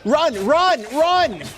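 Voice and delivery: shrieking jackpot winner. Real, not acted. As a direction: shriek at them to run. Urging escape during chase.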